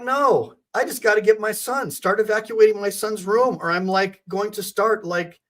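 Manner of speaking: a hint of a fierce mother; determined mother. Mother telling police to move aside, lightly voiced. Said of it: "and I'm like".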